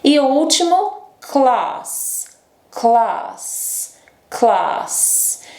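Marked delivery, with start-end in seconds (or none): 1.2-5.5 class with a long back a; British class. Shown as a demonstration. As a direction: say class with a broad ah. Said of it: "esses são os sons de A em inglês britânico". (class com A longo britânico)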